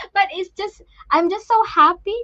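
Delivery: real happy emotion, trying not to cry; happy, holding back tears. Real, not acted. Mother grateful for her son's teacher, holding back tears. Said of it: "I do not like to cry".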